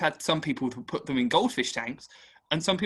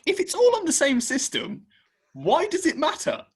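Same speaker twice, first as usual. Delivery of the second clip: higher, exasperated comeback; irked retort; 12 semitones higher, 4 dB louder than usual. Retold or imitated. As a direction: fire back at him, fed up. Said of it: "when I get a little bit irked".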